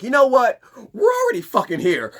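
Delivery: loud, high defiant yell; angry shout. Retold or imitated. Knocked-down Kilowog yells defiance at Ermi. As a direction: shout it as he gets back up. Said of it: "he's like".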